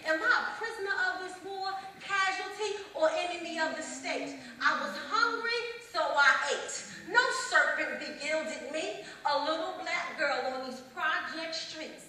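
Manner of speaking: high, loud, pressing spoken-word climax; impassioned challenge. Acted. Hungry girl challenging the war on her, impassioned challenge. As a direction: throw the words out as a defiant challenge. Poem demands answer to being targeted.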